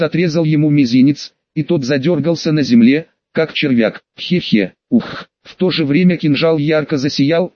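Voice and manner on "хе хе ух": sinister laugh. Acted. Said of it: "издал зловещий смех".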